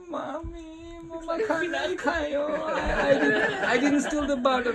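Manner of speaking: put-on high, slow whimpering child; mock-tearful little boy denying theft; child crying. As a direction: plead like a sobbing toddler.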